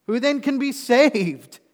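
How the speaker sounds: high, loud, slow bewildered cry; disciples asking. Acted. Disciples asking Jesus who can be saved, loud and high. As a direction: throw the question up in alarm. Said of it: "now we're talking about the disciples".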